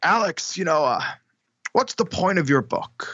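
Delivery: put-on rough-edged, gruff New York accent. Retelling what a gruff New York editor said: imitating a gruff New Yorker.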